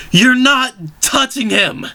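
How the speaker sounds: high, slowed scream of defiance. Acted. Zack screams at George Lucas to leave Luke alone, high. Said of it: "screamed Zack".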